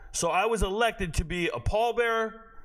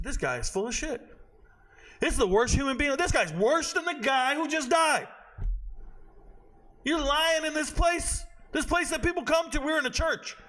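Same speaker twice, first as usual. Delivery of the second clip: raised, rising indignation at a lying commander; angry outburst; 7 semitones higher than usual. Retold or imitated. Soldier at a memorial, furious at the commander's speech, raised and heated. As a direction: let the anger build as you call him a liar. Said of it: "I said".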